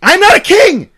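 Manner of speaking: high, loud, raw confession; anguished cry. Retold or imitated. King tells his followers the truth, high loud cry. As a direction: shout it as the act collapses.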